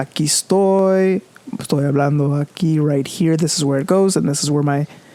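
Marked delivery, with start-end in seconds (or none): 0.0-3.4 slow, low voice sunk down into the chest. Showing the difference between head and chest voice in Spanish, demonstrating chest voice. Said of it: "I have to start in en español".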